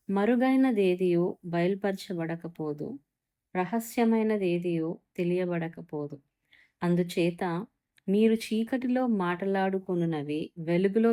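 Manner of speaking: measured preacher reading from the Bible; scripture reading. Acted. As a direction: read it out like holy writ, unhurried. Reads scripture passage.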